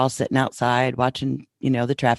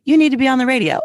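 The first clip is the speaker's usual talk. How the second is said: loud, high, amused mock announcement; incredulous requote; 11 semitones higher, 7 dB louder, much faster than usual. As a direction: repeat it in laughing disbelief, pitched way up. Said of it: "I can't believe someone just out of the blue".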